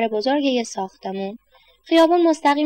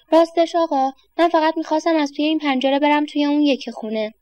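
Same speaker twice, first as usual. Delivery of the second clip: put-on timid boy; 4 semitones higher than usual. Boy explains shyly.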